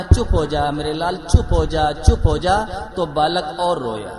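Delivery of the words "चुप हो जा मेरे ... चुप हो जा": put-on a louder mother hushing her crying child; mother hushing loudly. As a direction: call out 'hush, my darling' over the baby's crying, louder. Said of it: "माँ ने कहा". (रोते बच्चे को ज़ोर से चुप कराती माँ)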